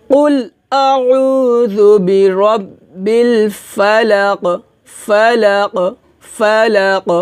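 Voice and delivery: recitação lenta, repetindo "ফালাক" com eco final; recitação em conjunto. Shown as a demonstration. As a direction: conduza devagar, rebatendo cada ক final. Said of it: "একসাথে বলি".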